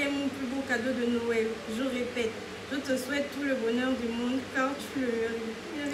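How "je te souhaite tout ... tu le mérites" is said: fighting back real tears over the card's last line; tearing up. Real, not acted. Reading her Christmas card to her friend, tearing up. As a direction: voice catching with tears as she reads. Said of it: "Non, pleure pas".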